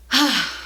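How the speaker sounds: short breathy sigh; wistful sigh. Real, not acted. Vlogger recalling where they got married, wistful sigh. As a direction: sigh over a fond memory. Sighs remembering wedding beach.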